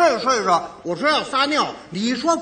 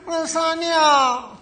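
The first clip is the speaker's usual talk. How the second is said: put-on whiny child; 5 semitones higher, much slower than usual. Child whining to mother.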